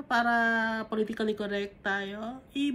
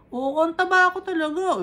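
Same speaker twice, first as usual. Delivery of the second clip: louder, higher mock reply; emphatic acceptance; 4 semitones higher, 7 dB louder than usual. Preacher acts out answering someone who calls them fat, emphatic acceptance. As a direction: own up to it loudly, playing the reply.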